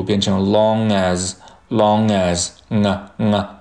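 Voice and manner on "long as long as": "long as" joined through the ng sound; nasal linking. Shown as a demonstration. Teacher showing how long as links, nasal linking. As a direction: release the ng of "long" into "as". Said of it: "其实会跟后面的元音进行一个连读".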